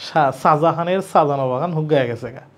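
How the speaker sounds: lightly imitated Old Dhaka accent, হুক গায়ে গেছে গা; a hint of Old Dhaka speech in হুক গায়ে গেছে গা. Teacher mimicking how Old Dhaka people say it, light Old Dhaka accent. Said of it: "পুরান ঢাকার লোক কী বলে".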